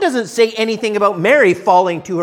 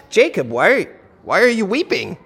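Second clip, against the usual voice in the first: asking to find out why; sincere question. Shown as a demonstration. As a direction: ask it wanting an answer. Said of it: "I want to know why he's weeping".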